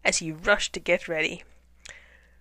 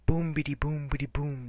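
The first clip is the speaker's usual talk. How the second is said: low rumbling boom chant; thunder roar; 3 semitones lower than usual. Acted. Penguins haunting hunters, low mock thunder. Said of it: "roared the thunder".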